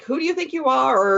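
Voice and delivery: ordinary talk, nothing marked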